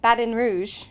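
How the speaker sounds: "Baton Rouge" low, with a D for the T; imitated pronunciation. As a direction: mimic their "Baton Rouge", T softened to D. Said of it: "How do I say it?".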